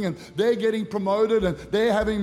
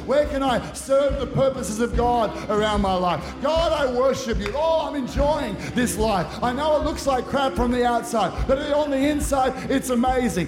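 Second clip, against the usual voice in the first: preaching; 3 semitones higher than usual. Acted. Preaching builds.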